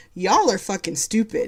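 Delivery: plain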